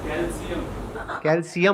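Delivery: "कैल्शियम" said kal-si-um, s not sh; corrected pronunciation. Shown as a demonstration. Student offering the corrected word, s instead of sh. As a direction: try "कैल्शियम" with a plain s. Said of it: "तो क्या होता है?".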